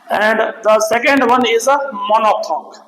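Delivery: drawn-out, deliberate English announcement; slow down to land the new term; slow dictation. Real, not acted. Teacher introducing the second vowel type to students, slow dictation.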